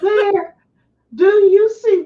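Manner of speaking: high, laughing voice; real giggles breaking into the words; talking through laughter. Real, not acted. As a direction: squeeze the words out while laughing. Still laughing after cracking up.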